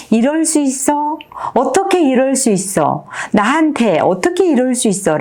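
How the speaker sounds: high-pitched protest, held back in volume; restrained, high mock yell; acted outcry. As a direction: cry out at the unfairness of a loss. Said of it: "소리 지르고 싶은 때가".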